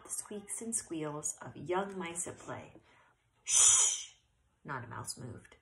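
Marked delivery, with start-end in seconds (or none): 3.4-4.1 urgent hush. A narrator's reading. Sudden noise silences mice.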